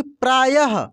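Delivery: अतः said slowly with a clear breathy "ah" released after the last consonant; teacher drill, stretch the final ः into an audible "aha"; breathy visarga ending. Shown as a demonstration. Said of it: "अह का उच्चारण हो रहा है".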